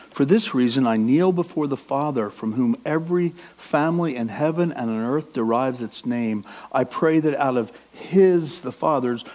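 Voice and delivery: measured reading aloud, pitched above the chatty voice; scripture reading. Acted. Preacher reading Paul's prayer to the church, scripture reading. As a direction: read the passage out with lifted key words.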